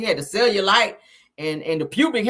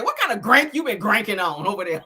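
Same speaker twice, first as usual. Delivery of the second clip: laughing quote. Retold or imitated. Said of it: "like Wanda said".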